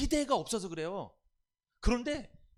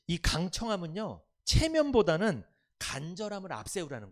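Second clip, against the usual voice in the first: preaching; 4 dB louder than usual. Acted. Pastor exhorting congregation.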